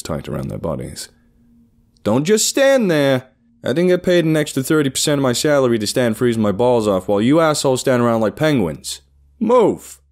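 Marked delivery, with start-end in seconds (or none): 2.0-9.0 loud, high-pitched berating of the crew; angry boss. A narrator's reading. Boss scolding employees who stand around in the cold, angry shouting. 9.4-10.0 sharp, very high, loud command; shouted. A narrator's reading. Boss ordering the frozen crew into groups, shouting. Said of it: "He shouted the last word".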